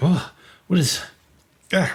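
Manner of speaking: disgusted, grossed out, coughing and spitting. Voicing a guard who just tasted the jerky: disgusted by the taste, coughing. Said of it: "he coughs a little bit and spits a little out".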